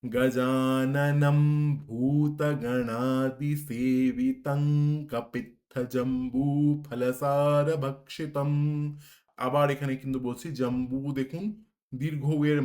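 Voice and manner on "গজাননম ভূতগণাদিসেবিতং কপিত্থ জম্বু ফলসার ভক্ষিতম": slow, loud verse, ভূতগণাদিসেবিতং ending ng; slow recitation. Shown as a demonstration. Teacher reciting the verse slowly, ng before ক. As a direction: chant it slowly, weighing each syllable. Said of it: "অনুস্বারের উচ্চারণ হবে ঙ এর মতো".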